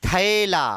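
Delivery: "थैला" with open ae; drawn-out open ऐ in थैला; modern pronunciation. Shown as a demonstration. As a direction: say थैला as "thae-la". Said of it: "ऐ का उच्चारण".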